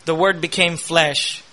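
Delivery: a hushed, reflective "The Word became flesh". Acted. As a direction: drop down and say "The Word became flesh" gently and slowly. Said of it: "quiet restatement of the phrase".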